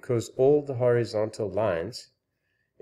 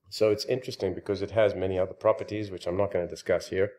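out of breath; faster than usual. Real, not acted. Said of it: "since I'm out of breath".

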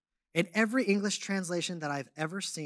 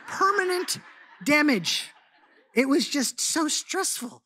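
high laughing repeat of the words; 9 semitones higher, 5 dB louder than usual. Real, not acted. Joking to the congregation about going gray, laughing. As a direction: laugh it out at your own misfortune.

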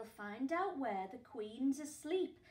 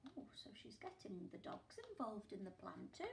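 soft conspiratorial whisper; 3 semitones lower, 9 dB quieter, faster than usual. Acted. Reader to children about the dogs joining, whispered. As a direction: tell it like a secret.

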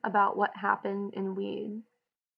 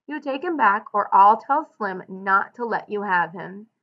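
louder, rising angry scold; 3 semitones higher, 4 dB louder than usual. Acted. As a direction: scold him hard. George scolds Lenny over pup.

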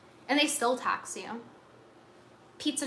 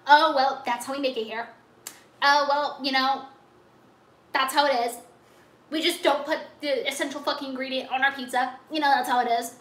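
mock restaurant staff. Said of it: "And then they're like".

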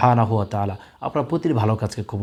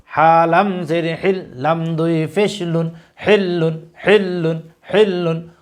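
teacher's recitation, letter by letter; slow spelling drill; 3 semitones higher, slower than usual. Shown as a demonstration. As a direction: spell each letter slowly, then say the word thrice. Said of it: "আপনারা আমাদের সাথে repeat করার চেষ্টা করুন". (ধীরে বানান করে তিনবার উচ্চারণ)

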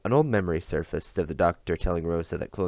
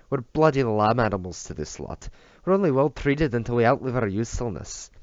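louder, higher bitter rant; bitter outburst; 6 semitones higher, 5 dB louder than usual. Acted. Drunk bodyguard bitterly rants into his arms, louder and higher. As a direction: spit out the grievance.

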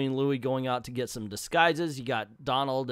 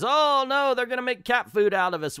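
mock panic; 11 semitones higher, 5 dB louder than usual. Ducks panic in story.

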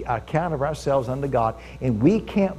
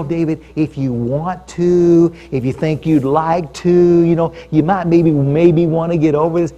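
mock timid suggestion; 5 dB louder than usual. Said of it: "It's not like".

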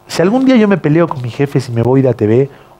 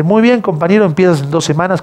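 imitating the boss; 5 semitones higher than usual. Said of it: "Como es Jimmy, ¿no?".

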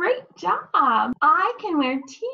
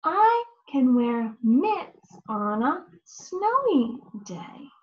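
model sentence. Shown as a demonstration.

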